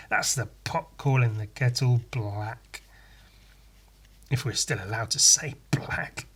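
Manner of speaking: a sly whisper under the breath; conspiratorial whispered quip; whispered aside. Real, not acted. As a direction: drop to a whisper for the joke. Whispered aside after the rant.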